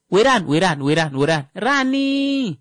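repetition showing magnitude; repeated for emphasis. Shown as a demonstration. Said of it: "context and emphasis".

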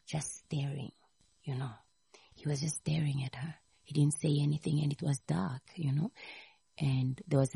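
hushed, low storytelling voice; barely audible. Acted. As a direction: drop to a near whisper for suspense. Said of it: "Your voice is very low".

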